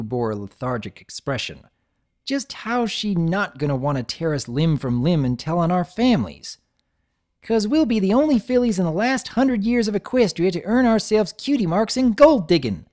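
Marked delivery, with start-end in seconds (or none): 2.2-6.6 sceptical. Acted. Scootaloo sceptical. 7.4-12.9 high, loud dreamy boast; filly bragging about cutie marks; excited filly. Acted. Apple Bloom dreams big.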